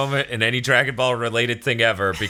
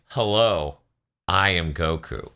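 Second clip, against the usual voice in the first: stiff formal Goku; 4 semitones lower, slower than usual. Retold or imitated. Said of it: "formal speech things".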